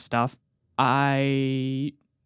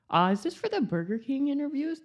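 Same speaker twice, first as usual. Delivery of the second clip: nervous question; 10 semitones higher, 5 dB quieter, faster than usual. Retold or imitated. Nervous teen entering job interview.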